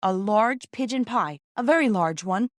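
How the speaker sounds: put-on a sick boy eagerly asking for a big pie. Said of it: "said Peter eagerly".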